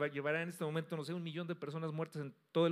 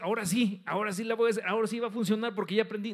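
louder, higher acted eager promise; confident resolve; 4 semitones higher, 5 dB louder, faster than usual. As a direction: play the groom convinced it will work this time. Acts out a five-times groom's optimism. (promesa entusiasta, imitada)

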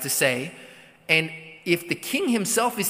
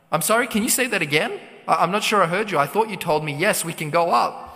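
incredulous. Retold or imitated. Ahab stunned by prophet's yes.

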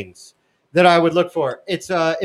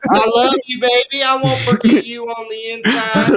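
mock tearful goodbye; 8 semitones higher than usual. Mock goodbye before arrest.

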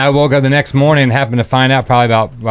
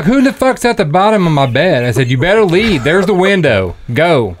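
higher-pitched mock indignation; worked-up storyteller playing himself angry; retold angry order; 5 semitones higher than usual. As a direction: act out throwing an intruder out, without shouting.

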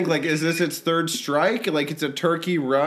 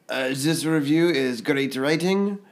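attempted French accent; 3 semitones lower than usual. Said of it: "it's hard to put a French accent".

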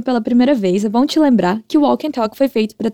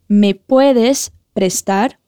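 slower repeat; much slower than usual. Shown as a demonstration. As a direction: stretch it out for learners. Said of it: "Repete comigo".

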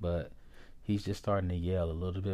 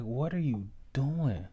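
drawn-out, higher-pitched incredulous question; bewildered disbelief; 4 semitones higher than usual. Retold or imitated. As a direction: retell a child's baffled question to an uncle, slowly. Bewildered nine-year-old questions uncle.

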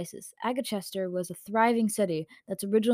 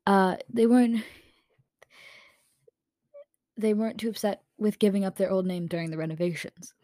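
whispered. Shown as a demonstration. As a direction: whisper the whole line. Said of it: "Oh, sorry".

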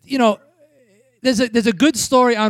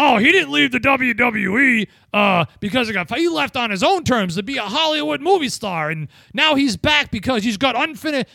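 mock announcer; 4 semitones higher than usual. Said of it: "If I had to hear about".

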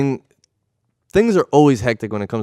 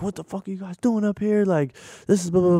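mock going-off; 10 semitones higher, 5 dB quieter than usual. Cop confronting the film crew, mock angry rant. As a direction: imitate an indignant cop, pitched way up. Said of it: "He just starts going off".

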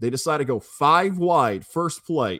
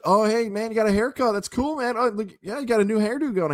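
high-pitched imitation of a chummy buddy; imitated buddy; 7 semitones higher than usual. Retelling a buddy noticing the haircut at the tailgate, imitated buddy voice. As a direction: voice a pal reacting, pitched well up. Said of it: "my buddy is really".

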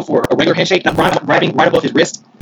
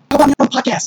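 higher-pitched imitation of calling out; retold yell, pitched up; mock yell; 8 semitones higher, faster than usual. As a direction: call it out without real volume. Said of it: "he said, he yells".

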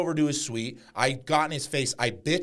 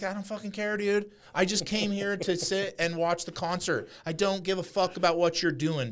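exasperated brush-off; 7 semitones higher than usual. Retold or imitated. Retold brush-off of pestering fans.

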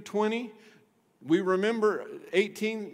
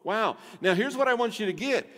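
ordinary talk, nothing marked

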